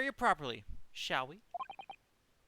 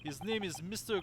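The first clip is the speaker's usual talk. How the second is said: put-on light Russian sailor accent; 4 semitones higher than usual. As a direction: stiff Russian-accented seaman. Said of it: "sorry to literally anybody who actually has a Russian accent".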